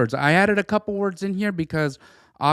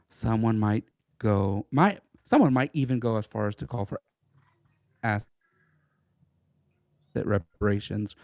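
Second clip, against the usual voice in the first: British accent; 5 semitones lower than usual. Shown as a demonstration. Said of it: "my British accent is not very strong".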